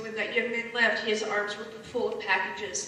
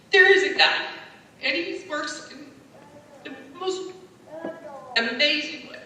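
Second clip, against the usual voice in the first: fervent testimony; 4 semitones higher, 4 dB louder than usual. Real, not acted. Emotional testimony of God's grace.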